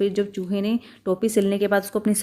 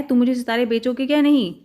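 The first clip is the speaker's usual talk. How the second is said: raised, pushy question; angry demand; 3 semitones higher, faster than usual. Acted. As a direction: press the shopkeeper angrily. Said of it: "चूहे ने गुस्से से पूछा".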